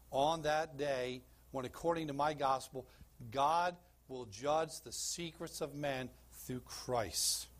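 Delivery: slow, weighty reading of Romans; scripture reading. Acted. Preacher reads Romans to church, slow and solemn. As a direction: lay each phrase down slowly.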